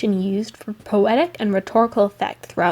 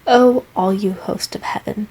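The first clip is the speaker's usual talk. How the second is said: mildly raised voice for a quote; quoted cry; 4 dB louder than usual. Retold or imitated. Student quoting Hamlet's appeal to heaven, mild cry. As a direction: cry it out a little, within a reading. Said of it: "Hamlet cries".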